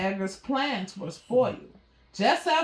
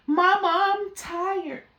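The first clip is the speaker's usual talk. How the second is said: higher, sing-song tired little kitten whine; whining kitten; 8 semitones higher, 4 dB louder, slower than usual. Acted. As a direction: whine it like a worn-out kitten to mama. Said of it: "whined Mary".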